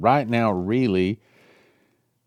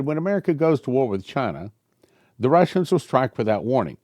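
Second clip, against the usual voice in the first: prophetic reading; 4 semitones higher than usual. Acted. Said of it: "Then the man spoke again".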